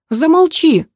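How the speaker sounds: high, loud desperate outburst; angry shout. A narrator's reading. Heroine shoves Max and silences him, high angry shout. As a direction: shout him down, pitch leaping up.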